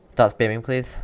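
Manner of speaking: sharp, loud rebuke to the chat; stern loud scolding. Real, not acted. Streamer sternly telling chat spammers to stop, loud. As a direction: tell the spammers off firmly.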